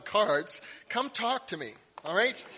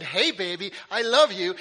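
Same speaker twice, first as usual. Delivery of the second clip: put-on a louder cheerful "Hey, baby, I love you"; cheerful endearment; 6 dB louder than usual. Husband greeting his wife in the mall, cheerful and loud. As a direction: call out sweetly to your wife. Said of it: "I said".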